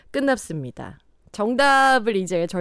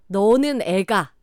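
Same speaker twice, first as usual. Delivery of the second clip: usual speaking voice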